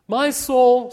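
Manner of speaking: high, very loud proclamation; child reciting at full volume; pageant declamation. A narrator's reading. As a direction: project it to the whole congregation. Mary declaims lines in pageant.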